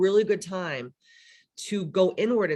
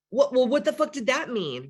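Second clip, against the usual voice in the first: confused friend; 7 semitones higher than usual. Retold or imitated. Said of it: "and they're like".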